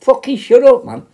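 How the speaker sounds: high, loud exasperated yell; acted shouting. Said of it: "someone fucking shouting".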